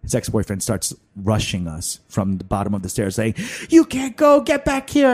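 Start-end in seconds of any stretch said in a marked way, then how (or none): 3.7-5.1 high, raised mock yell; imitating drunken ex. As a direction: call after them as a hammed-up jilted ex. Acts drunk ex yelling after them.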